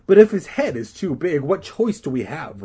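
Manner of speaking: high, loud start easing down into a whine; whining. Acted. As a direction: whine like a put-upon girl. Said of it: "Regina whined".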